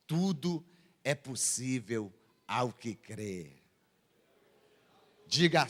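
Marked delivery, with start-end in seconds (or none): 0.1-3.5 low, soft, slow quoted assurance; hushed, measured preacher's quote; quiet assurance. Retold or imitated. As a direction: let it sink low and slow. Quotes Jesus's measured reply.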